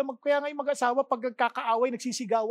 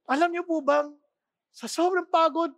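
ordinary talk, nothing marked

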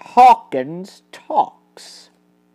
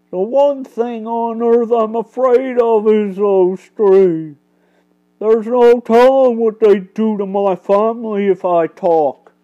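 a humble working man, scared; frightened carpenter; 3 semitones higher, 5 dB louder than usual. Acted. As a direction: plead as a worried father.

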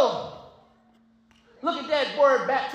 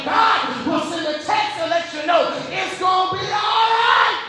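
rising, shouted gospel preaching over music; preaching at full force; 2 semitones higher than usual. Acted. Preacher testifying to the church, preaching at full force. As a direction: whip the congregation up with rising shouts.

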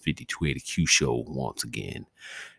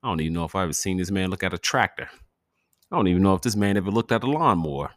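incredulous; 5 semitones higher, 5 dB louder, faster than usual. Real, not acted.

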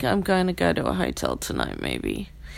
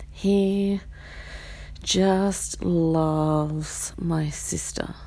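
whisper; much slower than usual. Real, not acted. Aside while dog whines.

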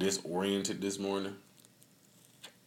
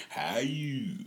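whispered imitation; 6 semitones higher than usual. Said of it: "she be sitting over there to my son".

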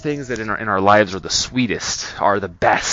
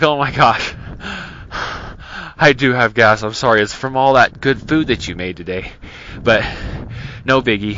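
unfazed. Retold or imitated. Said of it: "as if I was totally unfazed".

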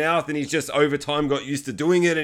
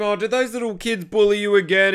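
put-on sweet old mum; 5 semitones higher, 3 dB louder than usual. Mum voiced in story.

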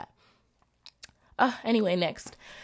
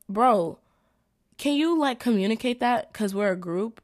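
higher, louder, exasperated; annoyed retort; 3 semitones higher, 4 dB louder than usual. Retold or imitated. To the groupmate who didn't share, an annoyed retort. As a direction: call him out, fed up. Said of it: "I was just like".

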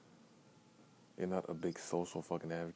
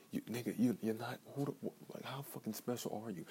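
incredulous, higher pitch; exasperated; 6 semitones higher than usual. Real, not acted. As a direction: push it up in disbelief. Exasperated rant at listener.

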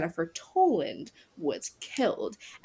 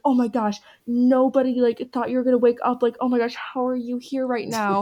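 mock astonishment; 4 semitones higher than usual. Acts out everyone's astonished reaction.

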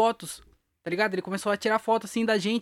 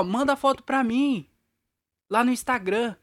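calling out; 4 semitones higher, slower than usual. Retold or imitated. Calling up to actor on building.

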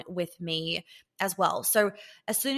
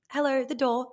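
higher, light and teasing with a smile; cheeky smile; 5 semitones higher than usual. Retold or imitated. Reminding her man to hold the door, cheeky and playful. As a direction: tease him gently about the door. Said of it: "with a little bit of a cheeky smile".

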